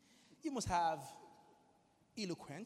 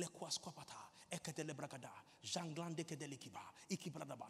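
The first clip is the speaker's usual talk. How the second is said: lower, murmured run of tongues; praying in tongues; 3 semitones lower, 4 dB quieter than usual. Retold or imitated. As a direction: re-enact a private prayer in unknown syllables. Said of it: "pray in tongues for five hours".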